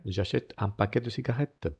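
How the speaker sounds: j'achète with the final E silent. Shown as a demonstration. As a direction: say j'achète without voicing the E. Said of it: "no pronuncio la E".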